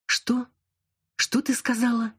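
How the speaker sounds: can't believe her ears; outraged disbelief. A narrator's reading. Friend insults narrator, outraged reaction. (возмущённо, в шоке)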